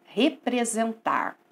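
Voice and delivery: "Representar" lento, com cada sílaba esticada; palavra articulada devagar. Shown as a demonstration. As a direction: diga "Representar" devagar, como demonstração. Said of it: "Olha o que que tá acontecendo aqui". ("Representar" bem pausado)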